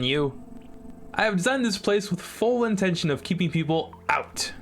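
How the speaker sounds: taunting character voice. Acted. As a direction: tease them like a smug puzzle master. Voices the intercom game character.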